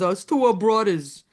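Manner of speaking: Brooklyn accent, imitating Mitch; lightly done Brooklyn accent. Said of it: "in a perfect Brooklyn accent".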